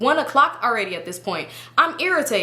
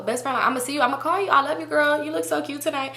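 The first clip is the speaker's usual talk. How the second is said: mock fake sweetness; 5 semitones higher than usual. Friend saying goodbye to best friend, imitated as fake. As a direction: gush insincerely at a best friend. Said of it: "This bitch is fake".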